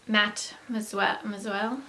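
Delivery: slow Southern pronunciation of a French word; Southern accent. Real, not acted. Vlogger stumbling over a French lipstick name, Southern accent. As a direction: let a Southern accent slip out, slowly. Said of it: "southern accent comes out with that".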